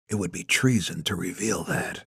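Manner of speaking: hushed, tightly held menace; through gritted teeth. A narrator's reading. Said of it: "He speaks through gritted teeth".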